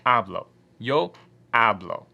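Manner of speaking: hablo with a punched first syllable, AB-lo; stress on first syllable. Shown as a demonstration. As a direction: hit the first syllable of hablo, let the second drop. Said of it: "So you're emphasizing this portion".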